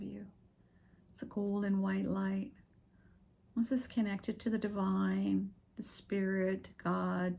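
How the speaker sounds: unhurried meditation guide with long pauses; guided meditation. Acted. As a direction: gently lead them through breathing, leaving space between phrases.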